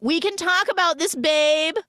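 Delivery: high, loud nervous plea; mock panicked pleading. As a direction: beg her to calm down. Pleading with attacker.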